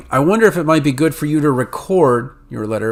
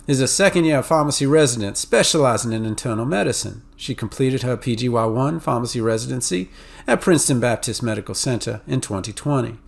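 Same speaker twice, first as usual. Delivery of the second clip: Southern accent; 3 dB quieter than usual. Shown as a demonstration. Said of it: "where somebody from the South might go".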